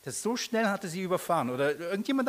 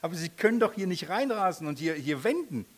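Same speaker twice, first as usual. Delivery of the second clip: loud, higher start, insisting; retold argument; 4 semitones higher, 3 dB louder than usual. Preacher yelling back at the speeding neighbour. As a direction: retell yelling back at him. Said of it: "Und ich sag".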